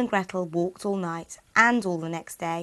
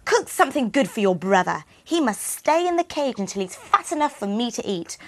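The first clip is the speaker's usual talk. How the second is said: witch; 3 semitones higher than usual. Acted. Witch orders Gretel.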